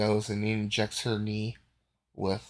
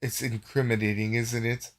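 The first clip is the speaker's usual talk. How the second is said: teasing question. Acted. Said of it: "it's like".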